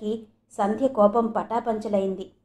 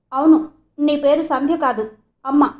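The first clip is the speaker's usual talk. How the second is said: confident and grave; 4 semitones higher, 5 dB louder than usual. A narrator's reading. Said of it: "ధీమాగా గంభీరంగా అన్నాడు బాబు".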